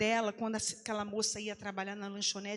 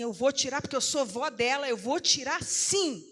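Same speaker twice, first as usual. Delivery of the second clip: louder, firm and insistent; firm declaration; 3 semitones higher, 6 dB louder than usual. Retold or imitated. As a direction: stand your ground, slowing at the end. Avó confronta a mulher. (afirmação firme e mais alta)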